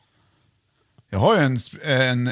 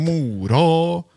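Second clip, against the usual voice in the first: "Mora" stretched long and pitched up; drawn-out pronunciation. Shown as a demonstration. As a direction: draw out the vowels of "Mora". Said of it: "det är ju det här med uttal".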